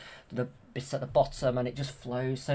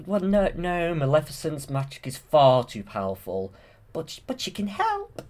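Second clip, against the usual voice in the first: lightly voiced fairy, higher at the end; Flora; 4 semitones higher, 3 dB louder than usual. Flora answering the King about the curse, lightly voiced fairy. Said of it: "Flora says".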